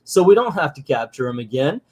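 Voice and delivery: high-pitched mock protest; exasperated kids. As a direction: plead frantically like cartoon children. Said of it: "And they're like".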